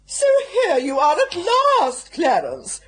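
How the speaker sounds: loud, sharp exclamation. Acted. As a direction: call out in exasperated welcome. Greeting late brother, exclaiming.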